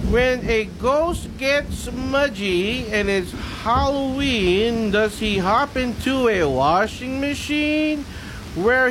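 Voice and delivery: slow poem reading; reading to children. Acted. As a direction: read it slowly like a bedtime poem.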